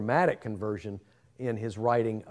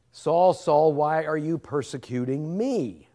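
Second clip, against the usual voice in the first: raised, ringing call from heaven; voice of Jesus calling out; 4 semitones higher, 4 dB louder than usual. Acted. The Lord calling out to Saul, a raised, ringing voice. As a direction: call his name out from above.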